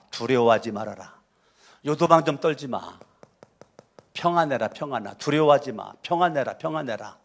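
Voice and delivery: calm a frightened servant, tenderly; gently reassuring. Acted. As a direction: Elisha soothing his frightened servant, gently. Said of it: "지금 엘리사가".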